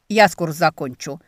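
loud curt bark at the patient; barking snap. Acted. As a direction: snap it out impatiently. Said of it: "рявкнул некромант".

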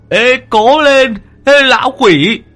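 put-on high, loud, slow cheering of a chubby boy; cheering from afar. A narrator's reading. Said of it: "đứng ở đằng xa cổ vũ".

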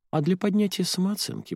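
lightly voiced mocking inner voice. A narrator's reading. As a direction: voice her nagging conscience up high. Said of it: "проснулся внутренний голос".

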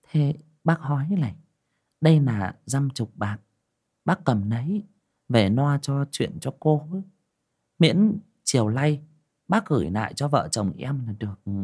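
lightly voiced gentle wife; wife Dương.

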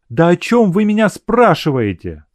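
lightly voiced confused girl; Nadenka flustered. A narrator's reading. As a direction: brush off the question, a little rattled.

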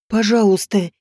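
pleading through clenched teeth; through gritted teeth. A narrator's reading. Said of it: "сквозь зубы попросил он".

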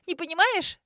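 shrill squeal. A narrator's reading. Grace hearing her sister doesn't understand, shrill disbelief. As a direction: squeal "Не понимаешь?" rising in disbelief. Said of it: "взвизгнула Грейс".

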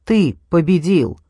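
slow cry, voice breaking on it. Acted. Kate screams at Mark until her voice gives out, breaking cry. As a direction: hurl it at him till the voice cracks. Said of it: "Кейт сорвала голос".

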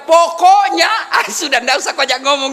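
high, loud mocking of a wife's "Pokoknya"; mock stubborn wife. Preacher mimics a stubborn wife to the congregation, high and loud. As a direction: snap out "Pokoknya" like a wife ending the argument.

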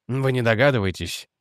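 gently. Acted. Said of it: "мягко сказал Реджи".

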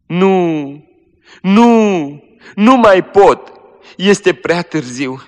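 high, loud, slow anguish; dying girl cries out in despair, high and loud; despairing cry. Acted. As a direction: cry out that it is too late.

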